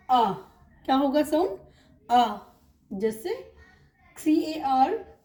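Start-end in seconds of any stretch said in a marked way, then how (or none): 0.1-2.4 "आ" as one long open vowel, no r. Shown as a demonstration. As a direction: say the British sound for AR, "आ". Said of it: "तो उसका sound होगा".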